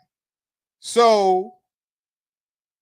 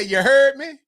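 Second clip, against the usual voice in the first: drawled New Orleans "You heard me?" with a louder push on "heard"; New Orleans phrase; 4 semitones higher, 5 dB louder than usual. Retold or imitated. Host imitating a Louisiana catchphrase, in a New Orleans accent. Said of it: "when you hear somebody say".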